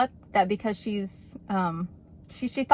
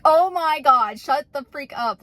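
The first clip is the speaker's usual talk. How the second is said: high, loud burst of delighted disbelief; excited squeal; 6 semitones higher, 5 dB louder, slower than usual. Retold or imitated. Receptionist hearing about the car prank, excited squeal. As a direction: squeal it like you can't believe what you just heard.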